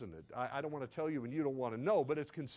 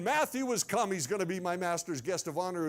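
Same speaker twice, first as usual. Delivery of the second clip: mildly raised herald's call; servant's shout. Acted. Servant announces the guest in the streets, half shouting. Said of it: "I start shouting again".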